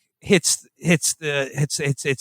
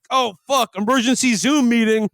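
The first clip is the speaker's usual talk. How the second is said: mock annoyance; 7 semitones higher than usual. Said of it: "it's just like".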